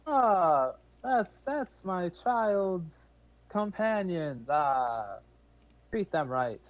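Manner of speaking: high, very slow proud parent voice; a hint of a fond elder; doting parent. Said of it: "they're like".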